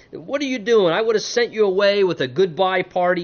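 high-pitched mock-indignant protest; guilt-tripping Laban. Father-in-law protesting a missed goodbye party, guilt-tripping. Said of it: "trying to lay the guilt trip on him".

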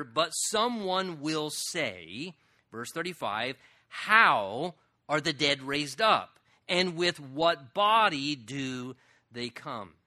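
slow, deliberate reading of the verse; scripture reading. Real, not acted. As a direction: read the text with weight.

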